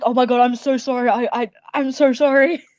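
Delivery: flinching, cowering, stammered words, repeated. Retelling how a man apologized in front of a performer's father, imitating a cowering apology. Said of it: "He like like cowered away".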